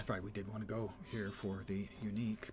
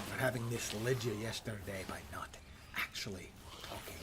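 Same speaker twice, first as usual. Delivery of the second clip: hushed apologetic whisper. Pretend. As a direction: whisper it close to the mic.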